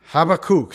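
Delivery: Habakkuk as HAH-bah-kook, ending in kook, said firmly; Hebrew Habakkuk. Shown as a demonstration. Preacher repeating the Hebrew Habakkuk his friend taught. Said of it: "when I say it goofy".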